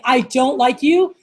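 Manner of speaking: slow, measured mock dislike; serious. Shown as a demonstration. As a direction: demonstrate a serious line, drawn out. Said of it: "Like, serious, like, I want".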